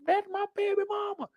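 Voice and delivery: high shouted announcement; yelled call. Retold or imitated. Warning listeners about someone yelling baby mama, shouting. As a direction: yell it across the room. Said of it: "Once you hear that yell".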